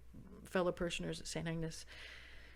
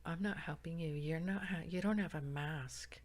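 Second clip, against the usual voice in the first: standoffish; 2 semitones lower, 6 dB quieter than usual. Retold or imitated. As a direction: refuse softly, keeping your distance. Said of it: "like, so standoffish".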